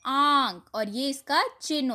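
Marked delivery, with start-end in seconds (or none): 0.1-0.6 आंख with the mouth wide open, nasal aa. Shown as a demonstration. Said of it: "मुंह खोल कर बोलेंगे आप". (आंख मुंह खोलकर बोलिए)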